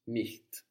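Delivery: "Nicht." with a crisp T, barely any ch; teacher modelling "Nicht." with a strong T; nicht without ch. Shown as a demonstration. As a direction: snap the T in "Nicht.". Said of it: "but without the ch".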